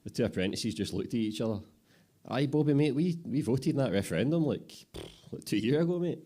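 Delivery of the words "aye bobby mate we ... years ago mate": much higher and louder, patient-mocking; incredulous apprentice. Apprentice tells Bobby about the referendum, high and loud. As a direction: spell it out to the clueless boss.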